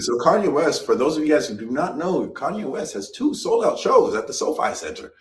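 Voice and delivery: news anchor read; reporter voice. Shown as a demonstration. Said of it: "did you guys like my reporter voice".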